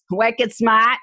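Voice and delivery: laughing wicked smart, Boston style; New England accent. Shown as a demonstration. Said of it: "our New England accent".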